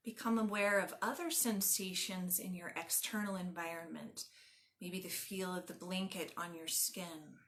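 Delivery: calm, measured meditation guide with long pauses; guided meditation. Acted. Yoga teacher leading listeners lying on the ground, guided meditation. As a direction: guide them gently into stillness, phrase by phrase.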